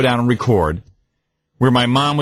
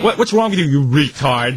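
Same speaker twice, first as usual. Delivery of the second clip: nagging mother. Retold or imitated. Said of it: "she has to rub it in".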